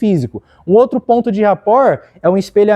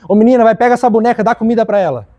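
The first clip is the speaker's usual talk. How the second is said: put-on quick, bossy orders to a little girl; bossy adult to child; 2 semitones higher, faster than usual. Shown as a demonstration. Wrong way to play with a child, quick bossy orders. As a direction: hurry the kid along like a busy grown-up. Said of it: "Não".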